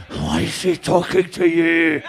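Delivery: mock-resentful sigh, then a slow drawn-out gripe; exaggerated bitchy group grumble; jealous rivals. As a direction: imitate envious rivals, dragging out the words. Acting out the jealous other girls.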